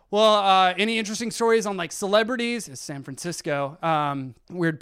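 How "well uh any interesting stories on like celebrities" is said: higher and much louder, hopeful; brightly fish for any celebrity gossip; doctor hopefully fishing for gossip, loud and high; eager fishing doctor. Retold or imitated.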